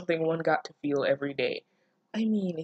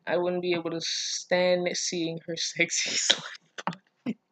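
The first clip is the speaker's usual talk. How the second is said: laughing while reading. Shown as a demonstration. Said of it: "Gotta read this with, like, a straight face".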